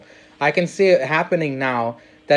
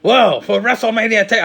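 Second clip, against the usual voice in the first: attempted English accent; 6 semitones higher, 3 dB louder than usual. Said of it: "I can't do the accent".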